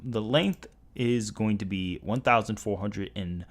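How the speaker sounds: real stumbles with filler sounds; stuttering. Real, not acted. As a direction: trip over the figure, then restate it forcefully. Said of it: "Sorry if I'm stuttering a lot".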